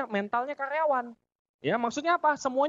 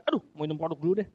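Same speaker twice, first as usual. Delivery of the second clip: fast, mock casual show-off; 6 semitones lower, much faster than usual. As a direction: act like you drink it all the time. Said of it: "Belaga-belaga mau show gitu". (pamer, cepat dan santai)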